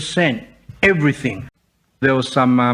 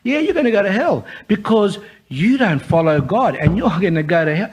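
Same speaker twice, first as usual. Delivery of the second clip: light, amused and higher; tossed off with a chuckle; mimicking a girl laughing as she answers; 4 semitones higher than usual. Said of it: "And she was laughing".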